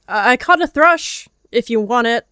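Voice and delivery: shaky, unsure offer; nervous stammer. A narrator's reading. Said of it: "realized how foolish he sounded".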